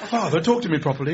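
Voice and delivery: loud mock plea to a father; pleading son. Son asks father to talk properly, mock pleading. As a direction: appeal to Dad with hammed-up dismay. Playing son correcting his dad.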